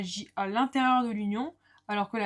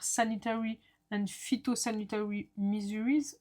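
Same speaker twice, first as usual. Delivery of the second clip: slow English words in a French accent, half-joking; 4 dB quieter than usual. Shown as a demonstration. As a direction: read the English name in a self-mocking French accent. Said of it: "avec mon super accent anglais".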